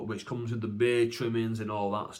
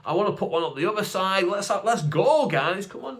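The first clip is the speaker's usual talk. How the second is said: happy as Larry; 5 semitones higher than usual. Retold or imitated. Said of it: "I'm happy as Larry".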